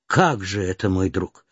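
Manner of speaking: a mother gently asking her daughter; mother countess. Acted.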